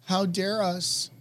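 sarcastically grovel; hammed-up hushed remorse; mock apology. Mocking guilty white liberals.

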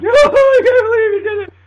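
very high, loud blubbering; hammed-up crying wail; mock wailing. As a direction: whine it like a sprayed thug. Sprayed men crying, walking off.

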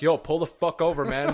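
loud, insistent demand; retold yell. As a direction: bark an order to pull over, re-enacted. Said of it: "I'm starting to yell at him".

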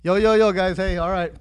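mock half-hearted host greeting, sinking as it goes; unexcited intro imitation. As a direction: start the opener, then let the energy drop. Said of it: "Today it's like".

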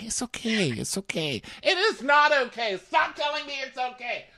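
very high mock argument over okay; hammed-up high-pitched spat; reenacted fight. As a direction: reenact the squabble, squeaky and exaggerated. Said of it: "That was my favorite fight in the whole show".

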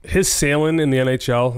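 natural Boston-accented pronunciation. Real, not acted. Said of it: "with a Boston accent".

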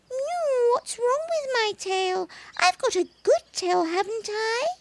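very high, soft anxious kitten voice; a little cat suddenly unsure; worried kitten. Acted. Baby cat worries to the monkey about his tail, high and soft.

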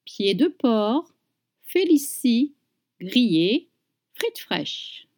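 natural native pace, items run together; brisk everyday French menu read; real speed. Shown as a demonstration. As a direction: say it at normal speed like a waiter. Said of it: "Now real speed".

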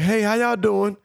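high sing-song greeting; imitated woman. Narrator voicing the woman greeting them at the bus stop, high-pitched. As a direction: chirp it like a friendly stranger.

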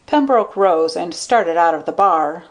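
ordinary delivery

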